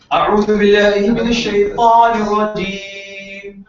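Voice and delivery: measured Quranic recitation; recitation demo. Shown as a demonstration. Teacher reciting the isti'adha for the class. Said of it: "I was giving practice of ta'amul".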